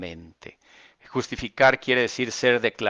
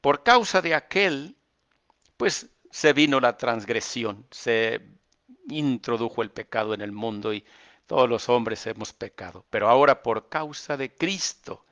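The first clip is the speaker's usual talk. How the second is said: raised, emphatic reading of the verse; preached reading. Acted. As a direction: proclaim it to the hearers.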